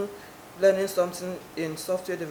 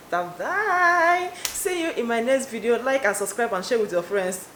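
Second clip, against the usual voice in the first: typical youtuber sign-off; 3 semitones higher than usual. Retold or imitated. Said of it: "I'm supposed to say".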